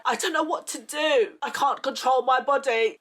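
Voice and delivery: high, distressed retold plea; retold crying. Crying to sisters on the phone, retold distress. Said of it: "I'm crying to my sisters".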